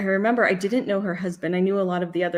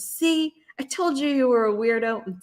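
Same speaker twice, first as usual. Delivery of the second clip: playful attempt at a British English accent, pitched up; lightly put-on English accent for a cartoon character; amateur English accent with a high start; 5 semitones higher than usual. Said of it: "the best I can do with my English accent".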